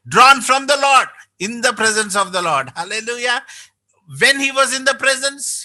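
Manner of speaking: impassioned preacher lifting the congregation; fervent preaching. Acted. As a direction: preach it out with rising fervor. Preaching builds to full force.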